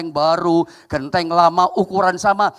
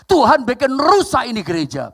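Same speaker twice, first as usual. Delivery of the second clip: raised, louder retold cry to God; mock tearful lament; 5 semitones higher, 4 dB louder than usual. Pastor asking God about the collapsed church, mock tearful lament. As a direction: imitate a distressed pastor's plea, no real sobbing. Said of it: "pendeta itu nangis, ngomong begini".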